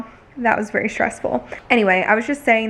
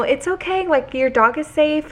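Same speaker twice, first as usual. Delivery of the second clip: higher-pitched retold soothing; gently reassure, re-enacting it with raised pitch; calming reassurance; 6 semitones higher than usual. Calming a worried old man about his dog, retold reassurance. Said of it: "trying to calm him down".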